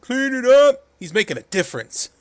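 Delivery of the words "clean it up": loud, high chant answer; shouted catchphrase. Retold or imitated. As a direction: bark it like a crowd.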